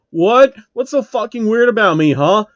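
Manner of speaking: high, loud, hostile shouting; angry shout. Acted. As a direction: snap back at the staring crowd. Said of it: "Phil angrily shouts at the crowd".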